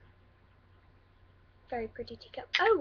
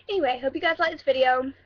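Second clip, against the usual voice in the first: louder sign-off in a put-on British accent; 5 dB louder than usual. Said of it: "that's my awesome British accent".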